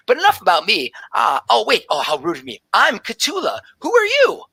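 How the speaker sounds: very high, breathless delight; excited tabaxi druid. Acted. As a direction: gush like a wide-eyed scholar. Druid chatters about research.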